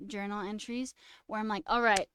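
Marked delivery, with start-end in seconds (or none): 1.7-2.1 loud, punchy pep talk to herself; self pep talk. Retold or imitated. Streamer quoting her old journal, loud fired-up pep talk. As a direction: psych yourself up, hitting got hard.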